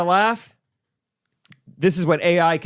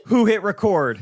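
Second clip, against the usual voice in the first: panicked; 5 semitones higher than usual. Acted. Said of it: "in a panicked voice".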